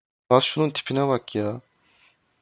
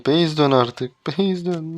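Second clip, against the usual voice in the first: louder, slow, drawn-out command; insistent repeat; 4 semitones higher, 3 dB louder, much slower than usual. Real, not acted. Gamer pleading with teammate to recall, slow and insistent. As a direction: stretch it out, fed up.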